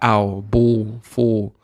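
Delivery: OW, BALL, FALL ending in a w sound; British dark l. Shown as a demonstration. Teacher showing the British accent, l turned to w. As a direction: drop the final l into a vowel. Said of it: "It sounds like a wow".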